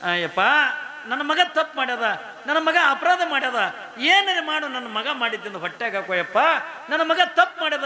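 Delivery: high, loud pleading wail to the saint; mother begging forgiveness. Retold or imitated. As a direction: beg the holy man for your son. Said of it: "ಶರಣ ಬಸಪ್ಪ ಅಂದು". (ಶರಣರ ಕಾಲಿಗೆ ಬಿದ್ದು ಬೇಡುವ ತಾಯಿ, ಎತ್ತರದ ಕೂಗು)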